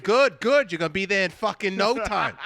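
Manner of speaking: high, loud hammed-up cheering; cheering coach. Holding bags for the Whomping Willow, high loud hammed-up cheering. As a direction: pump him up like a trainer.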